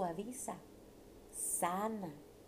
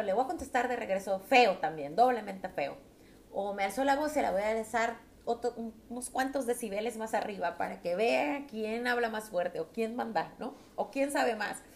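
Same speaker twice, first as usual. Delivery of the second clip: mocking an angry wife; 4 dB louder than usual. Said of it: "De decir".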